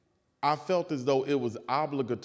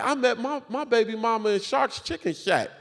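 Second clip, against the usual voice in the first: laughing punchline; 9 semitones higher, 4 dB louder than usual. Retold or imitated. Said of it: "And I said".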